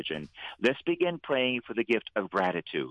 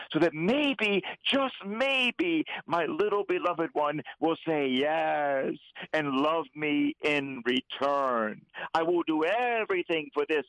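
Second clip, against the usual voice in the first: raised, earnest voice of God the Father, climbing higher toward the end; God pleading for his children; 6 semitones higher than usual. Retold or imitated. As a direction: plead like a father who longs to be loved back. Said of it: "But he said".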